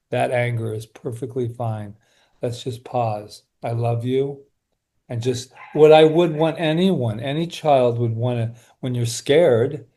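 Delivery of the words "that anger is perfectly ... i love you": put-on calm the hurt kid inside, gently; soothing self-talk. Shown as a demonstration. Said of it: "So then I go".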